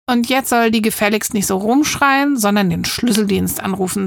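mildly irritated grumble; annoyed. Acted. Girl complaining about the shouting neighbour, mildly annoyed. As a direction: say it with a touch of impatience. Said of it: "sagt Lea genervt".

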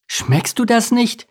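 high, drawn-out eager question; excited. A narrator's reading. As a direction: ask it slowly with rising excitement. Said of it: "entgegnete Lars aufgeregt".

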